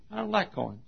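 high-pitched reluctant little fish. Acted. Fish refusing the coin, reluctant whine. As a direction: balk in a small high voice. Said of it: "Fish says".

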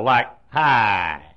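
hi as one long syllable, low; preacher showing the proper hi. Shown as a demonstration. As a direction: stretch hi into one long even sound. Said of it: "one long syllable".

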